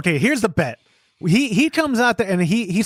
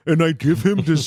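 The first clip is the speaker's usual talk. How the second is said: Neanderthal voice; 2 semitones lower than usual. Shown as a demonstration. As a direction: speak like a lumbering caveman. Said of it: "this Neanderthal voice".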